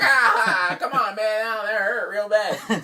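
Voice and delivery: high, loud, laughing complaint; laughing through pain. Retold or imitated. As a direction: giggle while protesting the hurt. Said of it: "he's laughing still".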